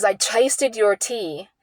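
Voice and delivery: slow, lightly mocking retelling of her insult; quoting mom's nasty words with mild contempt; mimicking mom's insult. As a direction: drawl her insult out slowly, a hint of scorn. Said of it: "what she says".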